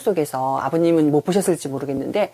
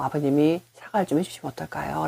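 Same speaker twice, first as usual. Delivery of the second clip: softer, cautious polite request; careful, gentle suggestion; 7 dB quieter than usual. Retold or imitated. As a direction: tactfully suggest the father apologize. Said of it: "조심스럽게 말을 했어요". (조심스럽고 부드럽게 제안하기)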